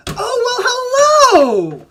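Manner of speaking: loud, high-pitched booming giant greeting. Acted. Jovial cloud giant greeting the little visitors, loud and booming. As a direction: boom it out high and huge, drawn-out. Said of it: "loud booming voice".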